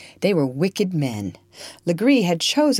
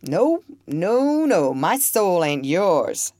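calm and joyful; 3 semitones higher, slower than usual. Acted. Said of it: "looking calmly, almost joyfully at him".

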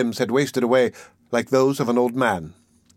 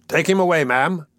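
higher, commanding order; imperious; 5 semitones higher than usual. Acted. Mister Bumble orders Missus Mann about, imperious. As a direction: dismiss with official authority. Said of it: "said Mister Bumble imperiously".

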